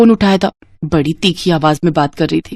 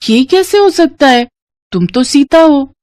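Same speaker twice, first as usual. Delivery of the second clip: much higher, astonished; disbelief; 6 semitones higher than usual. Acted. Asha facing Sita's lookalike, astonished and higher. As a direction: cannot believe her eyes.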